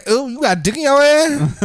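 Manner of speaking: high imitated woman, incredulous; mock disgust. Riffing as the woman reacting to him, high mock disgust. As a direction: squeal the question in mock disgust.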